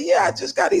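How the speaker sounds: high-pitched, flustered reply; defensive admission. Acted. New inmate admits he just got here, high-pitched. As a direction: voice jumps up, owning up to being new. Defensive newcomer answers old hand.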